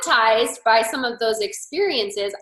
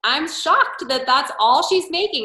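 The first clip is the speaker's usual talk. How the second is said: mock disbelief; 5 semitones higher than usual. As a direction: act unimpressed on purpose. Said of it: "I was like".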